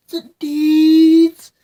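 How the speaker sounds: punched-up second take; loud. Shown as a demonstration. Repeats louder for effect.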